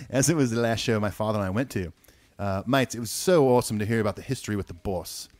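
put-on light Australian accent through the email; Aussie accent. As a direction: read it like a mate from Perth, lightly. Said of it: "it must be in Ethan's Aussie accent".

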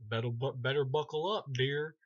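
Freddy. Retold or imitated. Freddy taunting Dan as he drives, loud mock villain voice. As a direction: punch it out as a corny one-liner. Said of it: "and then he's like".

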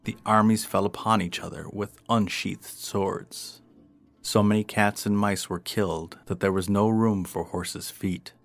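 measured, projected storyteller read; story narration. A narrator's reading. Narrator telling of cats and mice at war, storytelling. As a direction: narrate the old fable with clear emphasis. Reads a tale aloud.

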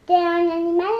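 loud retold insult. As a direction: throw out the insult loudly. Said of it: "elle m'a mis un coup de poing".

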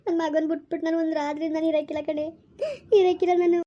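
acted crying, lightly sobbed words; tearful lament. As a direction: grieve tearfully for a missing child. Mother grieving for missing son. (ಅಳುತ್ತಾ ಗೋಳಾಡುವುದು)

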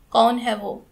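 loud, hard-edged question; stern demand. Acted. Aunt interrogating her nephew about the girl, stern. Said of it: "सख्त लहजे में पूछा".

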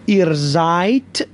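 "seid" ending in a t sound, like zait; teacher modelling "seid" with a t; final d as t. Shown as a demonstration. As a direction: let the d of "seid" come out as a clean t.

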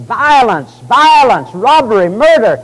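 imitating someone shouting for help; mock screaming. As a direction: call out each word like an alarm. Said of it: "notice what he's screaming".

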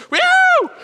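very high, loud whooping cheers; cheering. Retold or imitated. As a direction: whoop like the whole family is celebrating. Family cheering.

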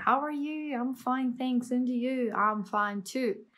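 lightly mocked rote classroom dialogue; programmed school recitation. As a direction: recite it evenly, as drilled at school. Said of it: "essa programação na escola". (diálogo decorado de escola, recitado no automático)

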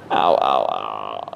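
low, groaning "ow" like a headache; mock headache groans, dropping low; pained groan. Shown as a demonstration. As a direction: act out the pain of a headache. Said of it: "like this".

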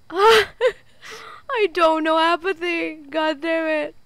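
tearful, helpless pleading; frightened whimper. Real, not acted. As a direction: whine to your teammate, near tears. Still panicking, crying to teammate.

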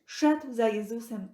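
plain reading voice

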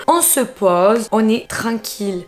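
slow, settled storyteller voice; slow down and settle the listener; calm soft voice. Shown as a demonstration. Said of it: "je vais essayer de prendre une petite voix posée".

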